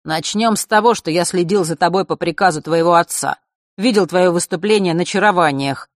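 put-on smug young man. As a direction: gloat over her as Mark. Narrator voicing Mark.

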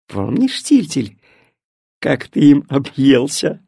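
animated grandmother voice with swooping pitch; lightly voiced granny fussing over her grandchildren; fond chatty grandmother. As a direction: dote on the children, lively and lilting.

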